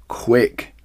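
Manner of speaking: a touch of urgency in "Quick"; urgent. Acted. Mister Fox rushes the others, mildly urgent. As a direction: hurry them. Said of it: "said Mister Fox".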